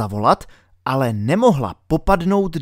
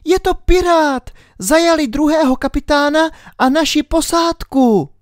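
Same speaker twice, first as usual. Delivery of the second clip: high, louder urgent cry; urgent girl Alenka; 4 dB louder than usual. A narrator's reading. Alenka insists the doctor is a pirate, high and urgent.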